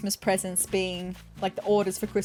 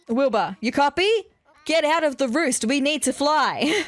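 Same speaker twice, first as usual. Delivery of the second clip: lightly acted urgent radio call, a bit raised; 3 semitones higher, 3 dB louder than usual. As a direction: summon a dozing co-pilot, playfully. Orville calls Wilbur over the radio.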